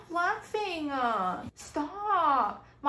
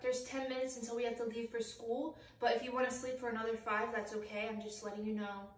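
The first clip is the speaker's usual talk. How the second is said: much softer, tender wake-up voice; soft gentle voice; 4 semitones lower, 12 dB quieter than usual. Acted. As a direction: coax them gently awake. Gentle parent waking kid.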